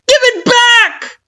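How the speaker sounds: very high, loud, slow demand breaking into a cry; plead-scream it through tears. Acted. You begging Kara for the menu, crying scream. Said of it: "you scream, defiant".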